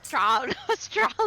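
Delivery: "Australian" with the vowels swallowed; swallowed word. Shown as a demonstration. Mocking how Australians say it, "Australian" swallowed. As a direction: swallow the middle of "Australian", laughing. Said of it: "They, like, swallow the word".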